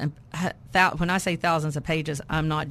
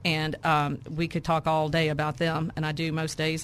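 raspy, worn-out voice; hoarse, losing voice. Real, not acted. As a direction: talk through a tired, husky throat. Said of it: "That's why I have no voice".

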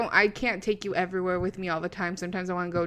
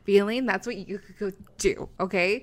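put-on drunk Nudia voice; 2 semitones lower than usual. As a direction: lightly slur like you're tipsy. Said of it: "in my drunk Nudia voice".

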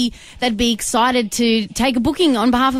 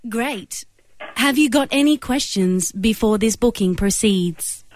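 automated operator voice. Pretend. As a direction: read it like a phone menu. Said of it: "automated operator voice".

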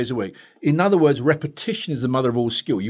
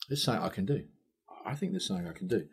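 very soft, lower-pitched musing; private thought; 4 semitones lower, 15 dB quieter, faster than usual. Retold or imitated. Therapist reading the notes alone, hushed musing. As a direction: think it quietly to yourself. Thinking to himself in retold story.

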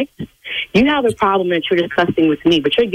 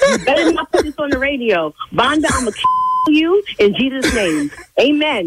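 higher, laughing while warning him; laughing through threats; 5 semitones higher than usual. Real, not acted. Prank victim to the host, laughing at being fooled. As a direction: laugh off the shock with mock threats.

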